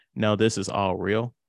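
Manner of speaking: ordinary talk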